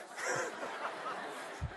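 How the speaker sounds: breathy, voiceless laugh. Real, not acted. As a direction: let out an airy laugh. Speaker laughs after HOA joke.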